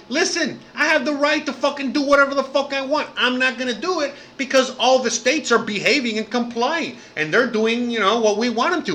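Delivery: a hint of Trump laying down the law; voicing Trump. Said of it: "he's fucking telling everybody".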